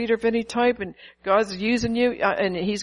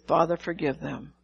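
tender forgiveness; 4 semitones lower, 5 dB quieter than usual. Retold or imitated. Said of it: "He said".

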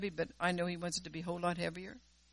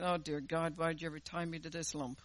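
grumbling complaint; 3 semitones lower, 5 dB quieter than usual. Retold or imitated. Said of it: "I wouldn't speak like that normally".

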